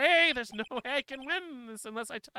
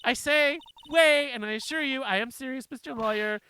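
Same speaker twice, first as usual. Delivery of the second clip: mock-grand insistence; 5 semitones higher, 7 dB louder than usual. Witness insisting on alibi.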